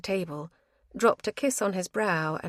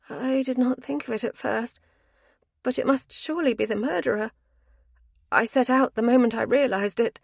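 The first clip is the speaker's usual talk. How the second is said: a higher, pressing woman's voice; urgent woman; 7 semitones higher, 3 dB louder than usual. Acted. Avril presses the letter on Patrick, urgent higher voice. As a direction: she has rushed here and won't wait.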